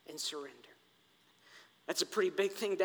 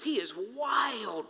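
emphatic shout; slower than usual. Shown as a demonstration. Preaching emphasis.

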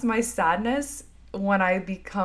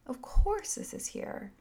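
soft whisper; 11 semitones higher, 4 dB quieter than usual. Shown as a demonstration. Softer repeat of self-talk.

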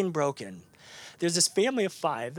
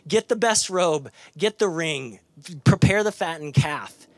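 joyful yell; 2 semitones higher, 5 dB louder than usual. Retold or imitated. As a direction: call out the orders in joy. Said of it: "and you just yell".

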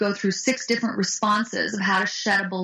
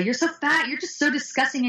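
high-pitched imitated taunt; bullying girls; 6 semitones higher than usual. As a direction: mimic girls mocking someone. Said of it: "the girls just constantly bugged her".

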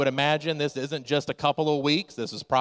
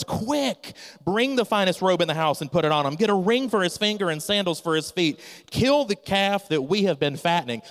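urgent father; 4 semitones higher than usual. Acted. Father orders servants urgently.

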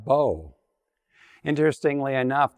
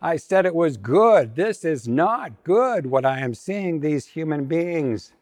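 a touch of exasperated fury, pitched up; mock furious; 4 semitones higher than usual. God as a fed-up cartoon wife scolding humanity, mock furious. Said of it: "she's furious".

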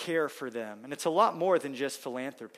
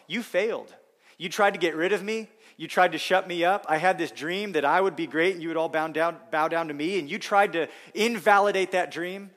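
louder, rising voice of a wronged brother; Joseph confronting brothers; 5 dB louder than usual. Pretend. Preacher voicing Joseph to his brothers, louder and accusing. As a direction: throw it back at the ones who tried to silence him.

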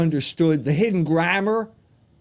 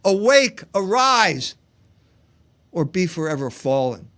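rousing call to arms. Acted. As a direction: proclaim it like a rebel leader. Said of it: "he got his line from Milton".

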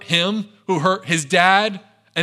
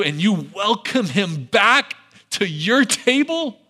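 bitter accusation; 3 semitones higher than usual. Retold or imitated. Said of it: "He says".

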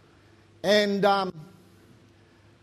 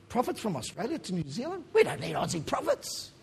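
mock indignation; 6 dB quieter than usual. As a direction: scoff in a small, incredulous stage voice. Acting out mock objection to Aussie prophets.

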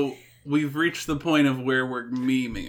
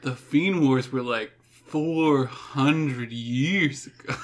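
stoner voice; 3 semitones lower, slower than usual. Pretend. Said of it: "saying in a stoner voice".

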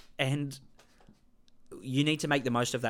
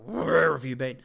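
put-on baby talk; 4 dB louder than usual. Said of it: "You talk to him like a baby".

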